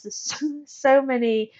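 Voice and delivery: real laugh breaking into the words. Real, not acted. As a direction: let a self-recognizing laugh interrupt you. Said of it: "laughing because this was me".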